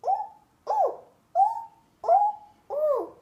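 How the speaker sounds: very high, loud monkey ooh-ooh calls; monkey hoots. Acted. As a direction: squeal it up high like jeering monkeys. Monkeys answer the peddler again.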